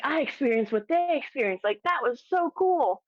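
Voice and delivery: thrilled. Retold or imitated. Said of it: "I was in my glory".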